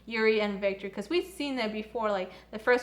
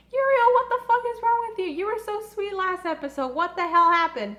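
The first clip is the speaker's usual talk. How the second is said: much higher, louder and fast scolding; outraged disbelief; 8 semitones higher, 6 dB louder than usual. Retold or imitated. Fan scolding Yurio for insulting Victor, high fast outrage. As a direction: scold him like a betrayed fan.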